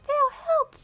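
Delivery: shrieking cry for help; high scream. Acted. Redone as shrill scream.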